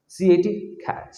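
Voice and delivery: ক্যাট with a short, undrawn vowel, as in English cat; short A, no drawl. Shown as a demonstration. Teacher giving a second example, ক্যাট kept short. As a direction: say ক্যাট without stretching the A. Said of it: "আমি কিন্তু টান দিচ্ছি না".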